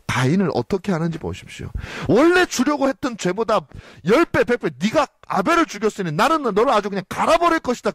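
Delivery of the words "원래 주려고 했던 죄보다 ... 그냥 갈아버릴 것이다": mock furious God. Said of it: "그렇게 말씀하시지는 않아요".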